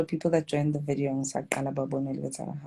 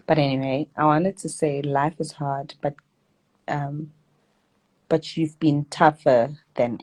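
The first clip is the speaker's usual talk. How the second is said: reads the note out, a little louder; reading a letter aloud; 4 dB louder than usual. Real, not acted. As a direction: read the sister's letter aloud to viewers. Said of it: "Let me read the letter to you".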